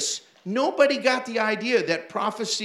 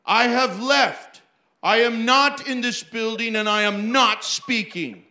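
mock prophecy; 2 semitones higher, 5 dB louder than usual. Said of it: "And then he said".

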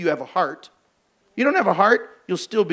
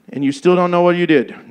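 louder disbelieving mother; incredulous mom; 6 dB louder than usual. Retold or imitated. Mother questioning her child, incredulous and louder. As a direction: press the kid in mock disbelief.

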